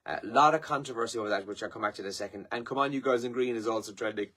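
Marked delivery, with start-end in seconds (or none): 2.5-4.3 talking through a yawn; words stretched by a yawn. Real, not acted. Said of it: "Excuse me, I'm yawning".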